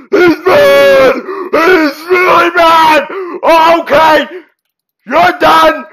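high, urgent cries of alarm; panicked shouting. Real, not acted. Player attacked by a bear thought friendly, panicked shouting. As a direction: yell in real panic while fleeing.

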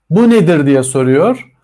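normal talking voice

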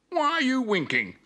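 high, puzzled pup voice; Spot the dog. A narrator's reading. Spot questioning Digby's wink, high and puzzled. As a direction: ask it high, like a baffled puppy.

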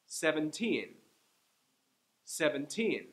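put-on Seventeen with the teen stressed; seven-TEEN, last syllable strong. Shown as a demonstration. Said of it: "I'm saying each one twice".

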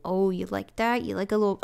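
ordinary talk

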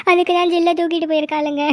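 speaking through tears; tearful, broken lament; crying. Acted. Mother weeps to Valli about her stolen daughter. Tells of the girl taken.

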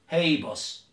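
mock broken-English accent; broken English, each phrase set apart. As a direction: quote it in made-up broken English. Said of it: "broken English".

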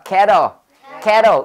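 캐러 with the vowel opening from 으 into 애; 으-to-애 vowel demo. Shown as a demonstration. Teacher has class repeat the vowel, emphatic pronunciation demo. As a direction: punch 캐러, stretching a wide 애. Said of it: "의에서 해 하는 거죠".

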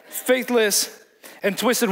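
slow repeat of faithless and twisted through a laugh. Real, not acted. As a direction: chuckle through the words, amused.

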